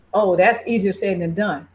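ordinary delivery

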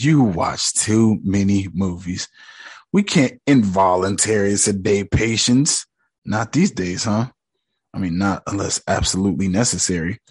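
a lightly voiced smug psychiatrist; calm doctor. Doctor brushing off Mark's fear, low and smooth.

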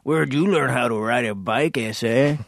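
lightly put-on Mexican accent; a hint of a comic Mexican accent. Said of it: "speaking in funny Mexican accents".

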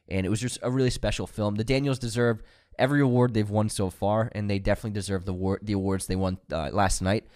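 stuffy cold nose; nasal voice. Real, not acted. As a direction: speak through a blocked nose. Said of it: "You sound so nasally right now".

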